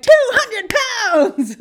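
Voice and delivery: high, loud cheerleader yell; Jerry. Acted. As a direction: holler it as wild encouragement. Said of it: "then Jerry's like".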